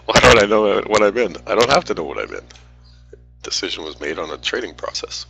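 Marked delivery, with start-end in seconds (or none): 0.0-2.4 loud, exasperated retort; loud indignant. Real, not acted. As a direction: fire it back at the critics. Mock-indignant outburst at critics.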